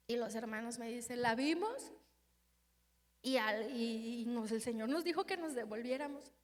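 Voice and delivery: narración casi susurrada y más baja; muy suave. Real, not acted. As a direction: cuenta en voz muy baja. Relato íntimo muy suave. (predicadora contando su momento más duro: voz muy baja)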